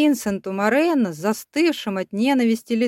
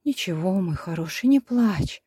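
tender cooing. A narrator's reading. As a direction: soothe the baby gently. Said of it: "нежно проворковала Вика".

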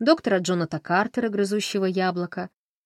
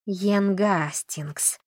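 bristling; much slower than usual. Acted. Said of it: "ощетинилась Камила".

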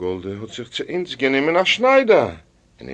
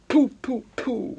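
three high, popped mock spits; high "pooh" spitting sounds; spitting against evil; 12 semitones higher than usual. A narrator's reading. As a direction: spit superstitiously three times, high and quick. Wife spits against evil dream.

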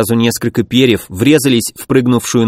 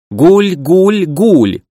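high, eerie cooing call; pigeon cooing; 6 semitones higher, much slower than usual. Acted. Monster pigeons cooing, high eerie call. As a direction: coo like a monstrous bird. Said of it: "мерзкое воркование прозвучало".

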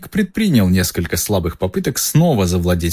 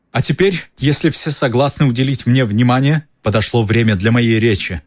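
loud announcement; 4 semitones higher than usual. Acted. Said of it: "громко сказал".

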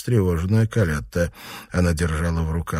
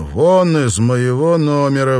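slow, cold, level order; breathed out; 7 semitones higher, 7 dB louder than usual. Acted. Lover to husband, a cold slow exhaled order to leave. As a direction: push the words out on a breath, coldly. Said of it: "выдохнул Райдел".

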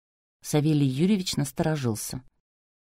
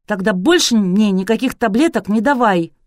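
louder imperious order; commanding; 4 semitones higher, 6 dB louder than usual. A narrator's reading. Fiancée orders Artur about pills, imperious. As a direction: command like a princess. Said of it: "приказала царевна".

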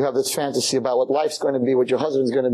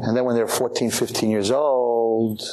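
slow, deliberate phrase; measured slow build-up; slow emphasis. Shown as a demonstration. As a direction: draw out "fifteen years old" slowly. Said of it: "repeated phrase contrast".

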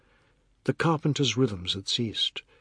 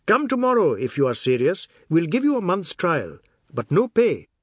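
a hint of a brisk, higher newspaper editor, speeding up; lightly voiced editor; 5 semitones higher, 5 dB louder than usual. A narrator's reading. Editor quizzing Mr Biswas about his age, lightly voiced. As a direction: editor sizing up the applicant, a little quicker.

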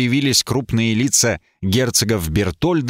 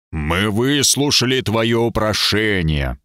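commanding voice; slower than usual. Acted. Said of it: "прогремел тот же властный голос".

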